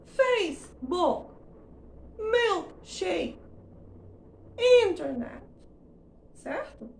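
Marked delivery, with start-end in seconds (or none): 0.0-5.4 Facebook, milkshake, internet with a loud, high stressed vowel and a clipped end; stressed then faded. Shown as a demonstration. Teacher modeling three loanwords. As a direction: hit the stressed vowel hard in each word and drop the ending. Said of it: "explora a vogal ... depois diminui o gás".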